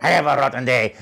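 Wario. Shown as a demonstration. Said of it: "and Wario".

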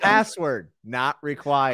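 high, measured login prompt; mock website voice. Podcaster playing Philip's website, slow mock computer prompt. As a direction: intone each field like an automated site.

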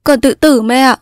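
high, upset daughter's voice; desperate daughter meaning every word; distraught insistence. Acted. Sobbing daughter threatens suicide.

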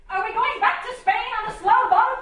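loud, high teasing laugh; loud mocking laughter; laughing mockery. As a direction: laugh off the idea.

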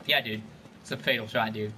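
ordinary talk

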